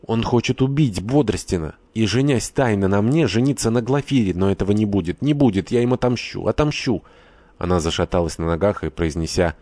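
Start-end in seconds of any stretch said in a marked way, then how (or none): 0.1-7.0 rising, higher outcry of revenge; cry out. Acted. Lara leaps up and cries out her revenge, rising higher. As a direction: voice climbing as she vows revenge. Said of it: "вскричала".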